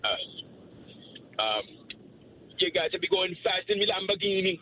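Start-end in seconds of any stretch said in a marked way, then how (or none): 2.6-4.6 higher, playful Jamaican voice; Jamaican accent. Pretend. Caller showing off Lamborghini on request, high Jamaican accent. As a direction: lift the pitch into a Jamaican lilt. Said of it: "No, a Jamaican accent".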